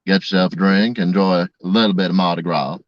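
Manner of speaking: relaxed Southern bayou accent from Louisiana. Shown as a demonstration. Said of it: "let me do Louisiana".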